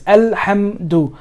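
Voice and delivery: Alhamdu slow, in separate beats; emphasized sukoon. Shown as a demonstration. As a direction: hit HAM in Alhamdu, closing firmly on m. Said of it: "try to emphasize".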